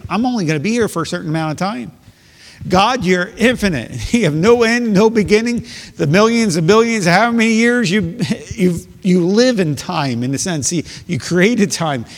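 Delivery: voicing David. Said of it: "he says".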